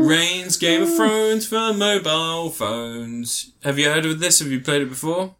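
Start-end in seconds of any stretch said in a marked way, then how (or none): 0.0-3.5 slow, high showman announcement; grand announcement. Pretend. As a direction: announce it like a trailer title.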